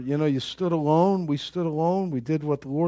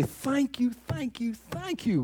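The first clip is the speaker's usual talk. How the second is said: high, soft repeated thanks; grateful praise; 8 semitones higher, 6 dB quieter, slower than usual. Acted. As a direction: offer thanks upward, lightly and high-pitched. Models grateful praise to God.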